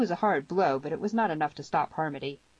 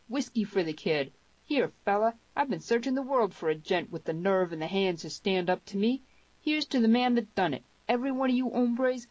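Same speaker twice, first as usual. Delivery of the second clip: high, hearty saloon bluster; big-voiced cowboy toasting his conqueror; rowdy western fighter, exultant; 5 semitones higher, 3 dB louder than usual. Harmony rallies the saloon.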